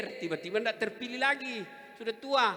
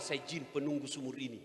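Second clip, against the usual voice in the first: jinn voice; 7 dB louder than usual. Retold or imitated. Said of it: "Dia bilang".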